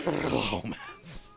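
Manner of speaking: squeaky dolphin with a rolled R in Romance; dolphin rolling its R's. Acted. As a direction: let a dolphin trill the R in Romance. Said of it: "this is the dolphin rolling its R's".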